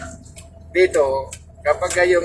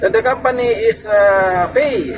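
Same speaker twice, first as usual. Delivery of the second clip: much higher, somewhat louder mock dispatcher; imitating the dispatcher; 6 semitones higher, 3 dB louder, slower than usual. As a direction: play the boss brushing off the complaint. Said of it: "sabi sa akin".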